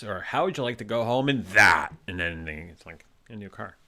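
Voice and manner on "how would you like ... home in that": game show host. Retold or imitated. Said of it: "he said it's like this".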